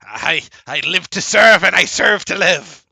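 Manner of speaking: high, loud squeaky voice; deadpan it in the little voice; creature reply. Acted. Ghoul telling the players there is no sun, high squeaky voice.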